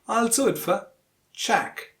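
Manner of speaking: weak "for", stressed "do" and "Jack". Shown as a demonstration. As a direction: lighten "for" and land on "Jack". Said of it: "you have to stress it".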